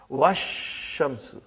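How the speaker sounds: Wash shamsu run together, slow, no alif or lam; assimilated wash shamsu. Shown as a demonstration. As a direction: say Wash shamsu slowly, letting the sh join. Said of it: "you will say wash".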